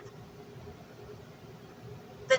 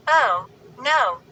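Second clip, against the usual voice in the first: a horrified cry, a little louder; cry of horror; 4 dB louder than usual. Acted. Girl sees a body in the dumpster, horrified cry. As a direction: gasp it out in horror. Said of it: "Chris cried aloud".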